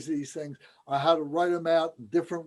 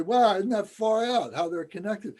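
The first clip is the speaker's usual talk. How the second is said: amazed wonder; 5 semitones higher than usual. Retold or imitated. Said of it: "And we say".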